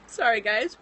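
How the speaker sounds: half crying, half laughing it off; crying apology. Real, not acted. Vlogger apologizing to viewers while crying, tearful. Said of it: "not crying this whole pregnancy".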